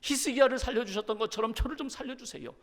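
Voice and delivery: cling and beg, lightly dramatized; pleading prayer. Acted. Believer bargaining with God to be healed, pleading. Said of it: "하나님 앞에 매달려 기도합니다".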